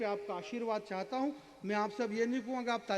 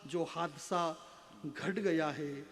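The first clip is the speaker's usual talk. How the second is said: measured verse with drawn-out endings; poetry recitation; slower than usual. Acted. Poet telling the runaway daughter she was no catastrophe, measured recitation. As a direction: recite gravely, pausing between phrases.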